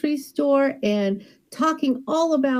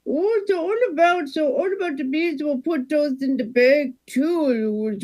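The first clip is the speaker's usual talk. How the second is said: ordinary delivery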